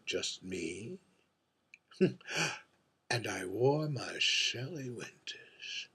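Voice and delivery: arch, world-weary drag queen holding court at a bar; lightly voiced aging diva, wry and wistful over her gin; mature drag queen. A mature drag queen at the bar confides in the invisible bartender, arch and wistful.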